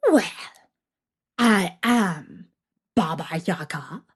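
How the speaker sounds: put-on a sly witch toying with a girl; old witch. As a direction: witch introducing herself to Vasilisa, sly. Witch voice held.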